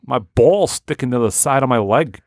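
grumbling Boston guy; Boston accent. Acted. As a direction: complain in a broad Boston accent. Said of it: "that has that real accent".

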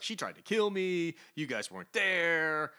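upset Star-Lord. Retold or imitated. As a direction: lash out at the team. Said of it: "Star-Lord's like".

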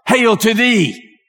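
solemn, stretched heavenly greeting; angel Gabriel. Acted. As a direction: draw it out like a voice from the fire. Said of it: "Imagine that voice coming out of that fire".

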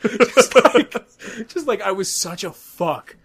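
high, loud laugh over the words; cracking up at himself. Real, not acted. Mocking his lazy essay, laughing.

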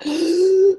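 sharp high gasp of panic; retold gasp of panic. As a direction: gasp as if caught off guard. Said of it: "I was sweating".

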